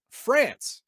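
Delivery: France, spat out high and loud with disdain; contemptuous France. Real, not acted. A player sneering at the name France. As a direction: sneer the name like a rival nation.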